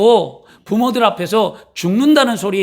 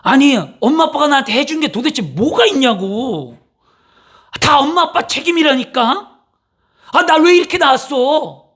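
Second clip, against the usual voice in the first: put-on resentful child; 6 semitones higher than usual. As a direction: hurl blame at the parents. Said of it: "욕과 같은 소리". (부모 탓하며 대드는 자식)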